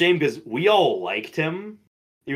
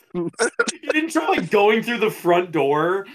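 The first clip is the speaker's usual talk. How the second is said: incredulous; 7 semitones higher, slower than usual. Real, not acted. Incredulous about stranded kid.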